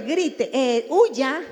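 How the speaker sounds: loud mock alarm, the reptile brain yelling to run; alarmed shout. The animal brain screaming at the person to flee, loud panicky cry. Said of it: "está diciéndole".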